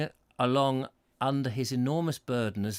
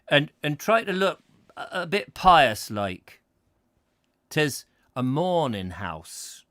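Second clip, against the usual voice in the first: a put-on rustic West Country accent, slowed; old Devon pedlar, West Country accent, lightly done; 4 semitones higher, 5 dB louder than usual. Pedlar warns at mourning house.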